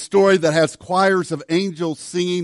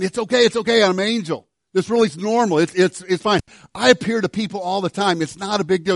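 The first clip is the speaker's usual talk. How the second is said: casual angel; 3 semitones higher than usual. Pretend. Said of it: "the angel would have said something along this line".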